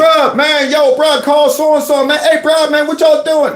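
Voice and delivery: mock the guy hollering bruh and man. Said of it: "That ain't causing a scene".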